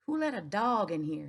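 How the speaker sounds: angry manager shouting in the store. Acted. Store manager shouting at the dog, mock yell. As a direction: yell it like a red-faced manager. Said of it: "he kept on shouting".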